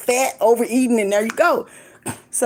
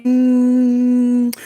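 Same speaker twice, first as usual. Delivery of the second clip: kissing sound. Pretend. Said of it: "love you".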